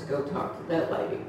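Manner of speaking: soft, breathy whisper of a gentle inner voice; barely voiced, like a still small voice. The Holy Spirit speaks to her softly in Walmart, a hushed whisper. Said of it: "I heard this soft voice".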